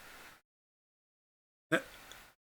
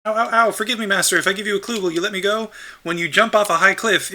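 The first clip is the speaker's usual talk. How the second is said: higher, whiny little scrub voice; pleading Deku scrub; 4 semitones higher than usual. Acted. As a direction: beg for mercy like a small creature.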